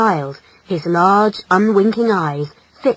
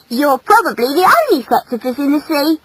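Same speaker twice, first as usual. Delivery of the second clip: put-on higher, lively girlish voice; keen, high young female; affectionate female; 6 semitones higher, 4 dB louder than usual. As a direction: tell him with teasing fondness. Female teases him fondly.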